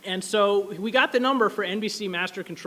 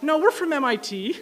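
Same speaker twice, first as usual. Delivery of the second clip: laughing reply; 6 semitones higher than usual. Retold or imitated. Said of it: "Jayhawk's like".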